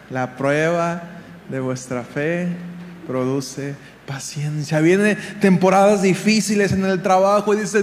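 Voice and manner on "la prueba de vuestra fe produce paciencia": low, slow and measured divine answer; voz de Dios serena. Acted. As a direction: quote God softly and deliberately, pitched down. Quotes God answering a complaint. (voz baja y pausada de Dios)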